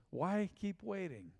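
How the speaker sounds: drawn out, each word weighed; slow urging question. Acted. Pastor pressing the congregation, slow and deliberate. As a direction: ask it slowly, letting it land.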